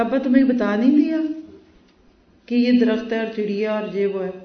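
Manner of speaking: mildly angry son. Retold or imitated. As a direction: act a son losing patience with his father. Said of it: "وہ ذرا غصے میں آ گیا". (ہلکے غصے میں جھنجھلایا ہوا بیٹا)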